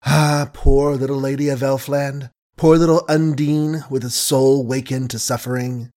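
rebuking. Acted. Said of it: "she rebuked him".

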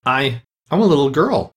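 high, faltering and unsure; doubtful. A narrator's reading. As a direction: say it without conviction. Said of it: "said Alice rather doubtfully".

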